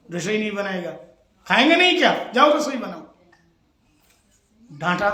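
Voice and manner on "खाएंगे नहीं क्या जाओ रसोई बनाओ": mock scolding. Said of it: "हम तुमको डांटेंगे झूठ मूठ के".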